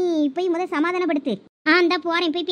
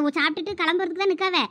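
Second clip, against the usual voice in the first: ordinary talk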